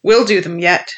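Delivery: a sudden loud cry of resolve. Acted. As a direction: fling it out defiantly. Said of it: "he cried".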